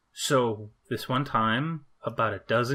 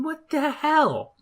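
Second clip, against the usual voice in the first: slow, much higher, louder disbelief; shocked boss; 4 dB louder, much slower than usual. Retold or imitated. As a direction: drag out stunned disbelief. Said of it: "my boss looked at me going".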